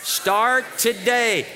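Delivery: drawn out, START and TODAY each weighted; slow emphatic. Shown as a demonstration. Pastor gives congregation a slow call to repeat. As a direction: lay out "Start today" slowly like a motto. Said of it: "Everybody say that out loud with me".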